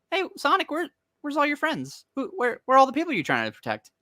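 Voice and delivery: high-pitched mocking sing-out; taunting. Villain mocking Sonic about his missing friends, high taunting. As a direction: needle him in a put-on high voice. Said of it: "where he's taunting Sonic".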